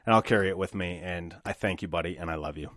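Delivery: low, soft, heartfelt thanks; quiet, heartfelt affection; sincere thanks. Real, not acted. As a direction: let it drop tenderly, speaking to a close friend. Thanking best friend sincerely.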